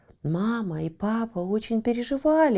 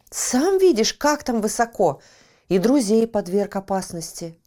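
firm, louder telling-off; stern parent scolding; 2 semitones higher, 6 dB louder than usual. Acted. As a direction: scold the pup firmly. Родители отчитывают Лаки. (строгие родители)

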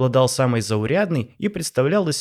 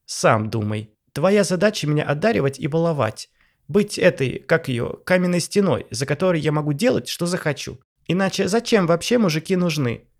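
spoiled wife; 6 semitones higher than usual. Acted. Wife lectures husband.

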